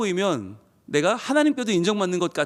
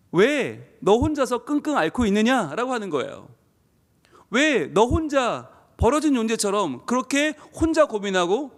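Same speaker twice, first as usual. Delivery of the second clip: pleading. Acted. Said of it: "안타까움이 아닐까요".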